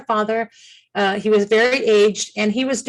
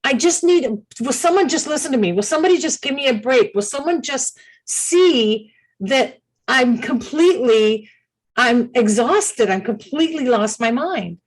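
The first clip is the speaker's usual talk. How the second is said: desperate plea; 2 semitones higher than usual. Retold or imitated. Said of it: "she was screaming".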